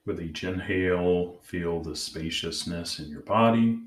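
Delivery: calm, measured meditation guide; guided meditation. Acted. Host leading listeners to check in with their inner parts, guided meditation. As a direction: gently guide them inward, leaving long pauses.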